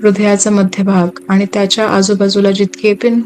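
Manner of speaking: unhurried meditation guide, long pauses between phrases; guided meditation. Acted. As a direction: guide listeners gently into relaxation, phrase by phrase.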